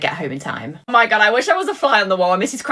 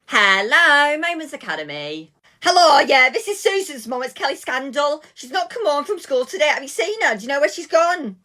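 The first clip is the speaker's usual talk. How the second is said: raised, anxious mother on the phone; worried mum; 7 semitones higher than usual. Acted. Mum ringing the school about her daughter, anxious.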